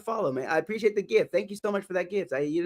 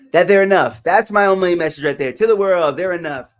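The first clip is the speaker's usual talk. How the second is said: loud emphatic; 3 semitones lower, 8 dB louder than usual. Real, not acted. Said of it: "his message to the world".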